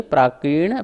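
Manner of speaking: प्रकीर्ण as one piece, stopping after ण; break after NA. Shown as a demonstration. Teacher shows how far to read, deliberate break. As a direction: rise on प्रकीर्ण, then stop. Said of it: "ना तक बोलिए".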